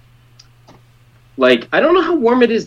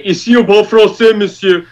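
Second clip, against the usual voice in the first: mock rude French-speaking local, louder and higher; snooty Quebecer; 8 semitones higher, 7 dB louder than usual. Mimicking rude locals who insist on French, mock snooty French. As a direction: sneer it like a rude Montreal local. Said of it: "assholes that say".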